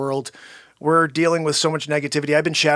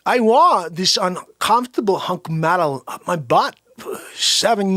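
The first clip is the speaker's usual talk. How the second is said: Walken impression. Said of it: "Christopher Walken".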